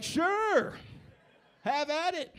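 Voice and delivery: very high, delighted agreement; high-pitched enthusiastic parent; eager mock-parent voice. Acting out parents' eager consent.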